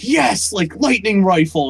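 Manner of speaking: high-pitched imitation of a thrilled gamer; mock excitement. Trailer player getting a rare weapon, imitated excitement. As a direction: cheer the loot like a scripted player. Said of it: "she's, like, all excited".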